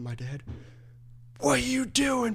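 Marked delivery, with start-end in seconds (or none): 1.4-2.3 whispered high, parents calling out; mock parent whisper. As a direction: whisper it like mom catching you. Parents shouting up at him.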